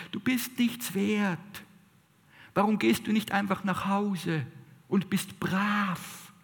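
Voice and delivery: a hint of a belittling little voice; nagging inner critic. Preacher voicing the inner critic taunting the listener, lightly mocking. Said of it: "Diese kleine Stimme, die uns sagt".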